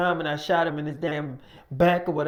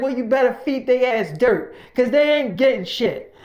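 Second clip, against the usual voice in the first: loud, higher cold refusal; angry refusal; 4 semitones higher, 5 dB louder than usual. Retold or imitated. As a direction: shut him down hard. Mike refusing the worker.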